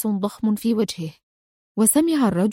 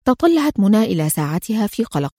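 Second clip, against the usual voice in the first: ordinary delivery, nothing marked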